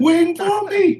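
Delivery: high, slow hyped-up announcer cry; wrestling promo. Retold or imitated. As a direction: belt it out like a wrestler hyping the crowd. Imitating a wrestler's entrance promo.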